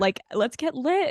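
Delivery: hammed-up let's-party voice; playful party push. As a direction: egg everyone on, mock rowdy. Playing rowdy self to assistant.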